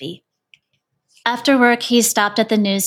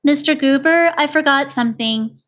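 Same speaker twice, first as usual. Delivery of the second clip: calling out; 5 semitones higher than usual. Acted. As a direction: raise the voice to reach someone walking away. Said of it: "Mister Hatch called from his porch".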